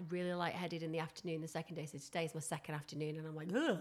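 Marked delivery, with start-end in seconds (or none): 3.5-3.8 short, higher-pitched "ugh"; woozy groan. Acted. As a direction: groan as if light-headed. Acting out feeling lightheaded.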